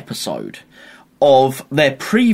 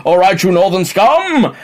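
mock posh English accent; 4 semitones higher, 5 dB louder than usual. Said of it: "they're just talking posh".

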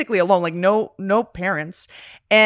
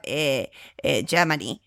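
put-on German accent; 6 semitones lower, 3 dB quieter than usual. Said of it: "he talks like that".

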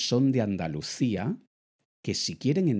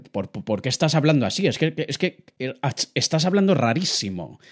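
put-on Venezuelan friends' accent; 4 semitones higher, 5 dB louder, faster than usual. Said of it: "mis amigos de Venezuela me dicen".

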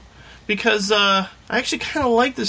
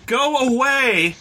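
scream; 8 semitones higher, slower than usual. Shown as a demonstration. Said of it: "All you have to do is scream".

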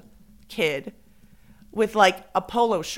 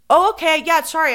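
high, louder sorry; mock flustered apology; 7 semitones higher, 9 dB louder than usual. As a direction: backpedal quickly, embarrassed. Apologizing after awkward joke.

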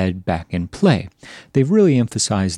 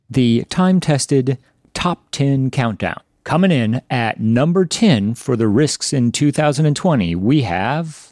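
hammed-up countdown host voice, higher; top ten countdown; 4 semitones higher than usual. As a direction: announce it like a late-night talk show list. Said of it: "with a nod to more entertaining talk shows of yore".

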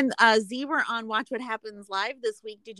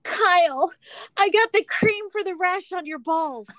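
much higher, louder melodramatic cry; dramatic reading as Natalia; 10 semitones higher, 6 dB louder than usual. Acted. Reading Natalia's reply to Kyle, shrill hammed-up drama. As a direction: overplay the outrage like a soap star. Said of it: "like, a dramatic reading?".

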